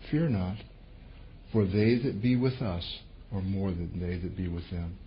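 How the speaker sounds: calm. Shown as a demonstration. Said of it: "because it's very calm".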